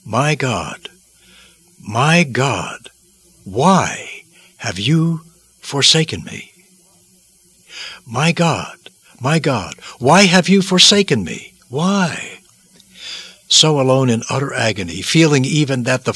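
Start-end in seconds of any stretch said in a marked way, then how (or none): 0.0-6.5 slow, hushed cry of anguish. Acted. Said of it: "caused him to utter these unforgettable words". 8.1-12.4 a desperate cry of abandonment, pitched high; anguished cry. Acted. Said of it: "caused him to utter these unforgettable words".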